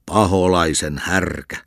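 slow, heavy insult; angry slow shout. Acted. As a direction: spit out each word in anger. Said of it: "huusi lukkari".

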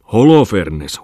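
loud bellowed name; shouted name. Acted. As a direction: yell it while hitting. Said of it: "huusi maisteri Pungman". (kovaääninen huuto)

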